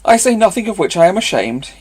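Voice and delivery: bold, cheeky and loud; lively impudence. Acted. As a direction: toss it off with brazen cheek. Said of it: "with lively impudence".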